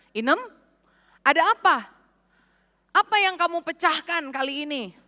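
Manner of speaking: startled call. Retold or imitated. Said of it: "dia kaget sekali dan dia teriak".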